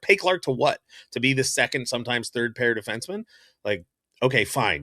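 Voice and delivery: exasperated, a bit heated rebuttal; getting mad. Real, not acted. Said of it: "I'm getting mad at Johnny".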